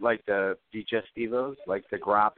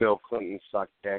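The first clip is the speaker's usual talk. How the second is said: usual speaking voice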